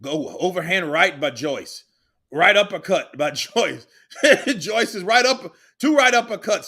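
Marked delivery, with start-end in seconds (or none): 2.3-6.6 calling the punches through laughter; laughing call. Real, not acted. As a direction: laugh while you call it.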